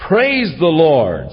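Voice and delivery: measured, proclaiming psalm reading; scripture reading. Acted. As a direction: read the psalm as a call to praise. Reads psalm aloud.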